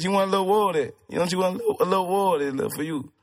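coaxing in a put-on Creole accent; lightly hammed-up Louisiana Creole accent; fake Creole accent. Man asks woman about having kids, fake Creole accent. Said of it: "I like your fake accent".

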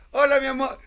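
high, slow sweet-but-accusing wife voice; retelling wife's exact words, high mock sweetness; imitating wife again. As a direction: repeat her syrupy greeting then the accusation. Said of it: "Pero así, ¿eh? O sea, en esa secuencia de palabras".

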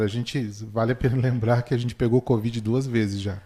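talking through a yawn. Real, not acted. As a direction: yawn while speaking. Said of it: "se você me vê bocejando aqui".

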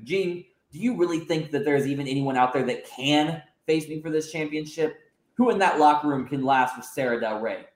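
slight haughty sneer in a near-normal voice; lightly voiced arrogant heel. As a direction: boast down at him, only lightly put on. Villain champion's promo.

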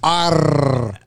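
a hint of a pirate growl. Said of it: "you sound like a pirate".

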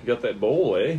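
lightly mocked Canadian "eh"; Canadian accent. Ribbing him for sounding Canadian, Canadian accent. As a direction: tease with a Canadian lilt. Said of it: "It sounds Canadian".

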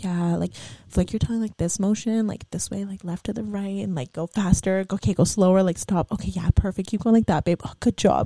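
gently coaching a lover; soft-spoken bedroom encouragement; low, nice voice. Shown as a demonstration. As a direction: guide them softly, with praise. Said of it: "nicely, in a low voice".

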